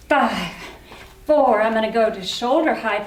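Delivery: breathless from marching; out of breath. Real, not acted. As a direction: talk while winded from cardio. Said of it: "I'm getting out of breath".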